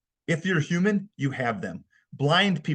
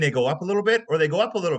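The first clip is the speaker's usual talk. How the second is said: demonstrating a voice going up; rising pitch; 4 semitones higher, 5 dB louder, faster than usual. Shown as a demonstration. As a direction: step the voice up on "up a little bit". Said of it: "going from a three to a four".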